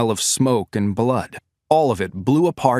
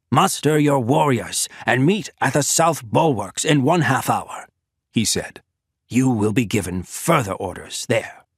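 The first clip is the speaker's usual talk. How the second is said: General Koke. A narrator's reading. Koke dismissing commanders.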